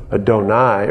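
Adonai ending in "nye"; Adonai as uh-doh-NYE. Shown as a demonstration. Preacher listing pronunciations, Adonai as uh-doh-NYE. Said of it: "however you want to pronounce it".

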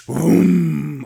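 imitated engine boom. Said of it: "it's just like".

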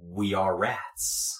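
slow, soft chorus of rats; communal rat voice. Acted. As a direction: speak as many rats in unison. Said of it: "kind of communal".

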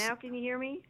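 speakerphone voice, breaking up; calling in on a bad line; over the phone. Real, not acted. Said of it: "you on speaker there".

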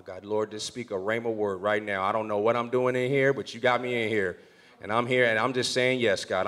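low, hushed murmured prayer; quiet prayer. Retold or imitated. Young pastor praying silently in the chief's office, hushed. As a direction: pray under your breath. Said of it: "I'm just praying underneath my tongue".

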